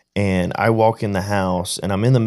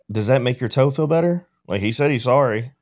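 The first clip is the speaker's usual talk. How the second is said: higher-pitched, mildly mocking dad; belittling; 5 semitones higher than usual. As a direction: talk down to a child, lightly re-enacted. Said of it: "I'm belittling him".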